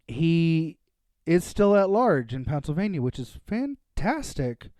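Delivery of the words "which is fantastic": dry sarcastic "fantastic". Acted. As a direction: say it with heavy sarcasm.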